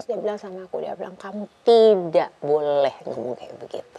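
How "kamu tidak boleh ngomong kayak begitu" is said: stern rebuke. Retold or imitated. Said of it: "dia marah loh sama aku".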